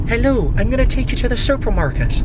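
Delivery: high, put-on Irish accent; a vlogger trying out an Irish lilt. Vlogger greeting viewers in a mock Irish accent. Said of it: "Every time I try the Irish accent".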